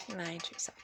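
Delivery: quiet repeat of the accusation. Real, not acted. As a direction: drop the voice as if telling them privately.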